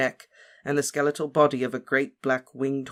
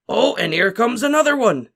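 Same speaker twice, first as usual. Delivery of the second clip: loud, higher, proudly thrilled; 9 semitones higher, 9 dB louder than usual. A narrator's reading. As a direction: show off the creature like a proud parent. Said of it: "said Hagrid proudly".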